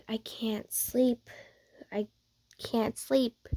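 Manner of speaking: whispering. Acted. Awake in bed at night.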